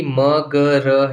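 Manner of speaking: म ग र as three separate sounds; letter by letter. Shown as a demonstration. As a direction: sound out म, ग, र one at a time. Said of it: "जैसे मैंने आपको बताया था".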